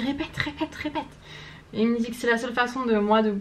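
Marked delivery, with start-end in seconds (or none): 0.0-1.0 higher, softer mock coaching repeat; imitating insistent boyfriend. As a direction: nag her lightly to say it again.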